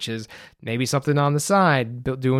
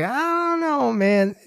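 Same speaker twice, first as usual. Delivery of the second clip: mock reply; 11 semitones higher, slower than usual.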